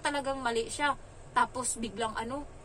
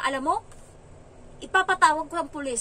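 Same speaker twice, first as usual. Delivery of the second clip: louder, mock-indignant child's threat; imitated angry child; 5 semitones higher, 6 dB louder than usual. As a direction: mimic a cross kid threatening. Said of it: "nagalit siya". (ginagayang galit na pagbabanta ng bata)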